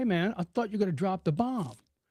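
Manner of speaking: ordinary talk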